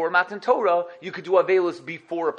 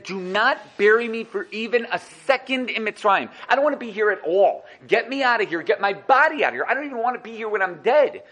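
higher and a bit louder, pressing each demand; Yaakov's insistent plea; 4 semitones higher, 4 dB louder than usual. Acted. Yaakov insisting to his sons not to bury him in Egypt, urgent plea. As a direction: plead urgently to be taken out of Egypt.

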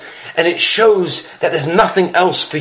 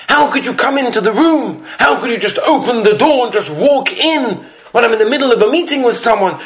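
raised, higher scolding voice, a mild mock yell; retold scolding; 4 semitones higher, faster than usual. Baba Sali scolds his son for walking in, mild raised voice. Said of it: "he starts raising his voice, screaming at him".

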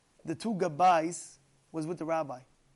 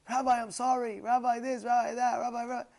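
high, insistent mock apology; acted apology; 5 semitones higher than usual. Rat apologizes to the rabbi, pleading. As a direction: imitate a man reeling off apologies. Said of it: "he apologizes to the rabbi".

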